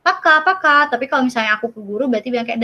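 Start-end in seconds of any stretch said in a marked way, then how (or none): 0.1-0.9 Paka, paka tossed higher and louder; a breezy bye to classmates; casual bye. Retold or imitated. Leaving class, saying bye to friends, breezy. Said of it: "terus aku bilang".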